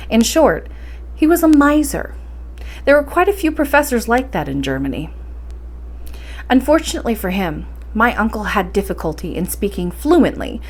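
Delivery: steady storybook reading voice; story narration. A narrator's reading. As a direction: tell the tale evenly to listeners. Reads novel aloud as narrator.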